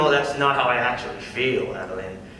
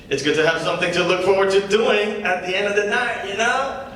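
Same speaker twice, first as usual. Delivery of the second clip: lightly voiced comedy-club patter; stand-up comic; 2 semitones higher than usual. The comic opening his set to the crowd, casual comic patter. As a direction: work the crowd with an easy opener.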